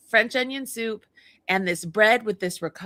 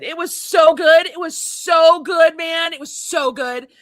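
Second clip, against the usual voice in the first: loud, raised, drawn-out gushing; excited raving; 5 semitones higher, 8 dB louder, slower than usual. Real, not acted. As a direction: rave about food you loved. Raving about delicious food.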